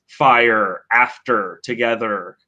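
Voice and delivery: "fire, after, together" each ending in a clear R; American R endings. Shown as a demonstration. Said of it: "with the R sound".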